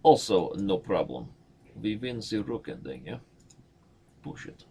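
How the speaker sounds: light mock Russian accent. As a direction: slip into a mild Russian accent. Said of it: "That is my Russian accent".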